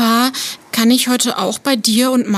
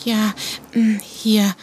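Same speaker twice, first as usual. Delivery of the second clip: unvoiced whisper while dialing; 5 dB quieter, slower than usual. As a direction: whisper to herself. (flüsternd)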